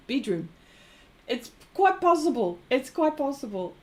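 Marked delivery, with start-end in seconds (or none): 0.1-0.5 "bedroom" said as "beedroom", falling; "bedroom" imitated as a neat "beedroom"; Kiwi vowel. Shown as a demonstration. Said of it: "I heard Kiwis say".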